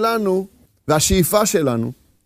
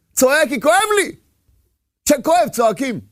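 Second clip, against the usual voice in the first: higher-pitched cry of complaint; mock pained cry; 6 semitones higher than usual. Man told to hush protests he hurts, mock pained cry. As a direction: cry out in pain, without real volume. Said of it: "אדם צועק".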